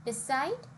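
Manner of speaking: "decide" as de-CIDE; "decide" with the weight at the end; stress on last syllable. Shown as a demonstration. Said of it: "on the last syllable".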